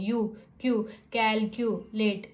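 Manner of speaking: क्यू with long "yoo", in कैल, क्यू, लेट; long U sound. Shown as a demonstration. Teacher showing the long sound, यू, क्यू, then कैल, क्यू, लेट in chunks. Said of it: "यू की हम long sound".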